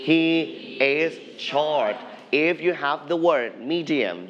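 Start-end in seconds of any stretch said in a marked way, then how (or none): 0.1-2.0 model sentence. Shown as a demonstration. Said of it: "you can say".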